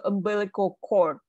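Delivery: "cord" ending in a released D; teacher's correction, sounding the D of "cord"; final D sounded. Shown as a demonstration. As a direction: model "umbilical cord" with a clear final D. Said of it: "So there's a D here".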